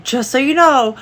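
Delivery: pointed, mocking "Just so you know"; mock the add-on with a sneer; mocking emphasis. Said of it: "that was unnecessary to add".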